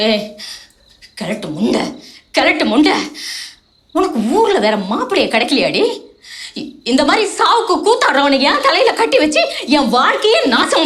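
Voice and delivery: bitter scolding. Acted. Wife scolds husband bitterly.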